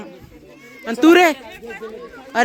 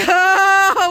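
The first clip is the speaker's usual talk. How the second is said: crying shout; 4 semitones higher, 3 dB louder than usual. Real, not acted. Crying at camp farewell.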